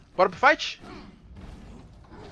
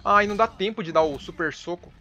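panicking gamer; 5 semitones higher, 5 dB louder than usual. Real, not acted. Frantic boss fight.

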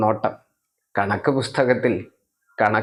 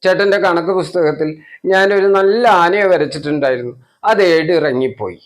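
put-on higher, louder tearful child's insistence; crying child; 3 semitones higher, 3 dB louder than usual. Little brother to big brother, higher tearful whine. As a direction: wail it out like a small boy. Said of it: "കരച്ചിൽ കൂടി വന്നു".

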